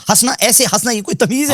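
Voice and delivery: high sing-song mockery of a laugh; mocking laughter imitation. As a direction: parody the opponent's laughing, fast and high. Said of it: "ایسے ہنس رہے ہیں جیسے جانور ہے".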